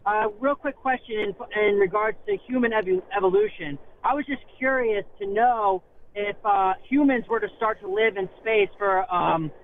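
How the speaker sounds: stormy, windy phone line; in a wind tunnel. Real, not acted. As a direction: voice under rushing wind noise. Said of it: "it sounds like you're in a wind tunnel".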